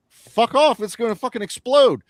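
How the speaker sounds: panicked henchman shouting no; mock angry refusal. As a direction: yell at the boss to back off. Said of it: "And he's like".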